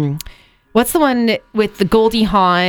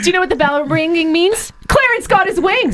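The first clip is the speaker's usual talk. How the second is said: movie quote impression; 10 semitones higher than usual. Quoting the movie.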